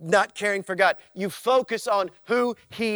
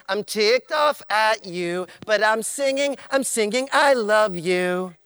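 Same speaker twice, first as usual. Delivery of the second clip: believer's prayer. Acted. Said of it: "Because here's you".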